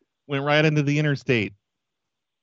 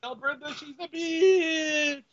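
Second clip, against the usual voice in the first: robber voice; 13 semitones higher, 5 dB quieter, slower than usual. Acted. Robber voice, slow high.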